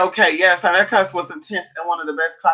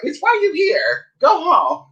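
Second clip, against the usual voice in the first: high, slow, yelled; dog voice yelling at the guest; mock dog yelling; 11 semitones higher, slower than usual. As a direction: shout it like a furious little dog. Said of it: "he's going off".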